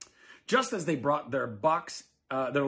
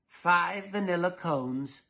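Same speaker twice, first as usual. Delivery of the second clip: lightly fussy husband; 4 semitones higher, 3 dB louder, slower than usual. Acted. Mister Dullard ordering.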